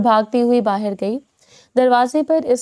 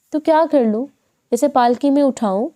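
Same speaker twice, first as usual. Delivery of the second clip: higher-pitched sarcastic snap; sharp retort; 3 semitones higher than usual. Acted. A mild sarcastic retort from mother to daughter. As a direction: throw the question back at her. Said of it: "تن سے کہا".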